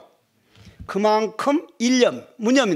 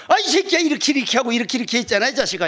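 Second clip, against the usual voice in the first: irritated scolding; 3 semitones higher, much faster than usual. Retold or imitated. Gyeongsang man scolds the visitor.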